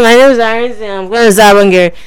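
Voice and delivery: mock mumbling caller voice; imitating caller. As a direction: mimic the caller's muffled mumble. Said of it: "That's how you sound".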